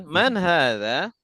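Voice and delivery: Man hadza said slowly with a question rise; slow model phrase. Shown as a demonstration. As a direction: give it slowly to be copied. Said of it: "silakan ditirukan". (Man hadza pelan untuk ditirukan)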